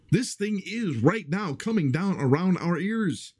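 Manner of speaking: pitched high, heated and insistent; worked-up rant. Real, not acted. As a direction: rail at them like you're fed up. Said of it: "he's raising his voice at me".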